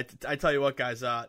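ordinary talk, nothing marked

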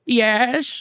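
high, put-on elderly woman's reply; imitating a frail grandmother answering; old British lady. Old lady answers from behind hospital curtains, mock elderly voice.

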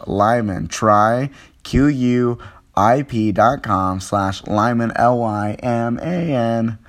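stiff robotic ad read. Real, not acted. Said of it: "Why am I talking like that today?".

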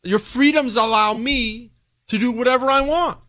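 high, gloating retold taunt; mocking. Former spy scoffing at American freedoms, mocking. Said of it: "He was mocking them".

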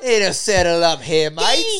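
hammed-up British cowboy accent, slow. Player trying the accent challenge, mock British cowboy. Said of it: "A British cowboy".

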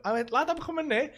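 retold eager shout at a party; excited shout. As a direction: call over the noise, thrilled.

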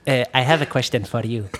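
imitated Arab salesman, amused; Arab accent. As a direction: put on an Arab accent, holding back laughter. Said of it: "I'm gonna try to talk to his accent".

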